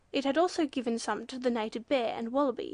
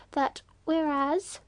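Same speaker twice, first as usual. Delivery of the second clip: prompting; 3 semitones higher, 5 dB louder, much slower than usual. A narrator's reading. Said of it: "prompted the Swallow".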